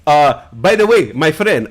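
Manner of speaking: slow, mock-formal correcting voice; a hint of an earnest player correcting his name; polite correction. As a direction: gently correct them, slowly. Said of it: "He was like".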